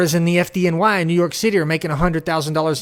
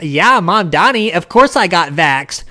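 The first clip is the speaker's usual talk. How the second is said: mock hip liberal. Mocking liberals who fit in, light smug mock. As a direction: play the virtue-signalling hipster. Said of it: "fit in with that cool".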